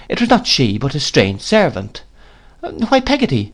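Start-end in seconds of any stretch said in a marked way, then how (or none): 2.6-3.5 put-on high, plaintive child's voice; rueful. A narrator's reading. Young boy to his nurse at the door, rueful. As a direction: voice a child's rueful question, pitched well up. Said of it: "said I ruefully".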